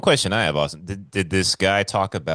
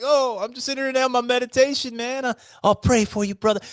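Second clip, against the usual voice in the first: much higher, airy serene put-on voice; mock zen guru. Mocking his own serene reply to doomsaying Bobby, in a high hammed-up calm voice. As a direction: play the blissed-out meditator.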